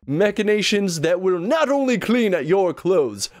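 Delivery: cheesy announcer voice. Pretend. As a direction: sell it like a corny infomercial. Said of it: "do my best cheesy announcer voice".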